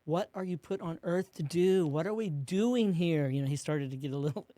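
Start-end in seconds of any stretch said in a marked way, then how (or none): 0.0-3.3 louder, slowing, pressing the question home; mean and emphatic. Retold or imitated. Consultant challenging the couple, mildly mock-stern and emphatic. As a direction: push them hard, a touch exasperated. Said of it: "like, mean and emphatic".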